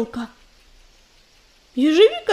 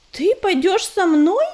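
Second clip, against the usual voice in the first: amazed babble; 4 semitones higher, slower than usual. Acted. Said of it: "изумлённо пролепетала Белка".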